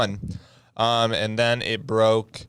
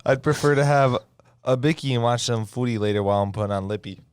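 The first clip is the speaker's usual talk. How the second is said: put-on Australian accent. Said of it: "That sounds a little weird there".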